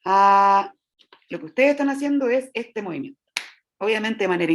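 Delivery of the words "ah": steady held ah; just phonate a plain ah; sustained ah. Shown as a demonstration. Teacher to class, modeling a sustained vowel. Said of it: "digan una".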